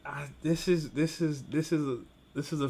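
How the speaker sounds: nervous whisper; a real frightened whisper; scared whisper. Real, not acted. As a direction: whisper it, uneasy. Scared by underwater game scene.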